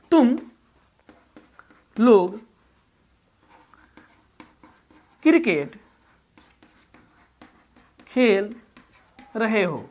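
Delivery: word by word, long pauses between words; slow dictation. Shown as a demonstration. Teacher dictating a sentence to students, slow word by word. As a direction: dictate each word slowly for students to write. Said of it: "अब देखिए".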